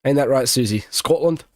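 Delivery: light mock Scottish accent. Streamer asking Susie about snow in the UK, playful Scottish accent. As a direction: put on a slight Scottish lilt. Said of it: "That was my Scottish accent".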